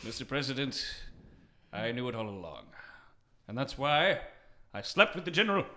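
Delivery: soft, low melodramatic confession. Acted. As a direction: confess the affair like a soap opera. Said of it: "focus on the melodrama".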